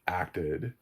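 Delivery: ordinary talk, nothing marked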